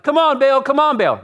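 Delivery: loud, high urgent shout; yelling. Retold or imitated. Desperate prophets calling on their silent god, yelling. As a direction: plead at the top of the voice. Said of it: "yelling like".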